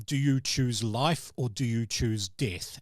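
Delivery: ominous creature voice. Acted. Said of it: "the same words you've heard before".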